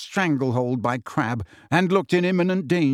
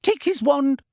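bark; 13 semitones higher, 3 dB louder than usual. Acted. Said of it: "she barked".

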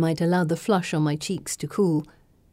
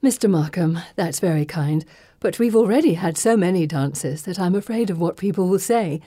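playing proper. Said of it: "playing proper".

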